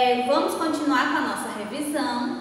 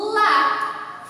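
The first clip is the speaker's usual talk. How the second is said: lá said alone, high and loud; stressed syllable; 8 semitones higher, 4 dB louder than usual. Shown as a demonstration. Teacher isolating the stressed syllable for pupils, loud. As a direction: punch the syllable lá. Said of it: "a sílaba que tem mais força".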